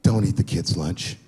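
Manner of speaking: mock-stern wife at bedtime; wife's warning. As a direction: lay down the rule slowly, deadpan. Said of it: "she'll walk halfway up the steps".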